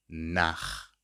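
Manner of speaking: Nach with a throaty German ch at the end; CH as weak K. Shown as a demonstration. Teacher repeating for learners, Nach with a weak K sound. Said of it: "becomes a weak K".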